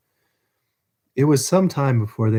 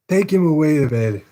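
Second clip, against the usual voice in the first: raised, urgent cry; old Fagin crying out to the jailer; cried out; 5 semitones higher, 4 dB louder than usual. Acted. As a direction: call out the order to take him. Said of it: "cried the Jew".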